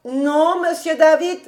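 high-pitched answering call; reply from down the hall; servant calling back. A narrator's reading. Servant calls back from afar.

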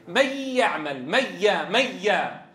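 "من يعمل" as "mayya'mal", pure y, no hum; no ghunna. Shown as a demonstration. Teacher shows students full merger, no ghunna at all. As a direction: merge the n wholly into y, "ميا", no nasal hold. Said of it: "ما في غنة أبدًا".

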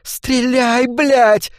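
Dark yelling at Joe to shoot; shouting. A narrator's reading. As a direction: scream at him to fire. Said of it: "крикнула Дарк".

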